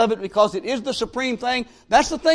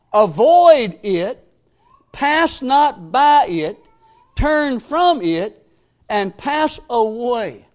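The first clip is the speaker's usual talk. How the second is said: each command slow and hammered, Go not and Avoid it much louder; emphatic scripture reading; 2 semitones lower, 4 dB louder, slower than usual. Shown as a demonstration. Preacher reading the verse to young people, slow and emphatic. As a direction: read the warnings out slow, one blow at a time. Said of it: "listen to how he states that again".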